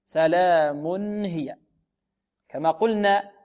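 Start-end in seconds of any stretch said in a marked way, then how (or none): 0.0-1.6 سلام هي slow, with a clear n; measured tanween model; sounded still nun. Shown as a demonstration. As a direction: recite "salaamun hiya", giving the n its time. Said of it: "نون ساكنة".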